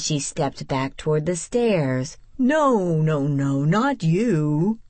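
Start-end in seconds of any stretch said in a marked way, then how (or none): 2.4-4.8 lighter tone. A narrator's reading. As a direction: lighten up to reassure them. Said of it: "he said in a lighter tone".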